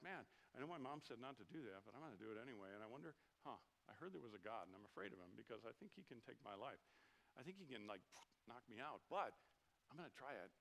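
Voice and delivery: put-on hushed, secretive kid thinking aloud; softly, like a nervous child plotting; a small boy's guilty hush; little kid's inner voice. Voicing a little kid sinning.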